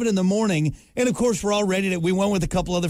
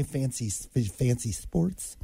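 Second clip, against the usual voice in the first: exaggerated cartoon intonation; 5 semitones lower, 7 dB quieter, slower than usual. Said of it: "What's going on?".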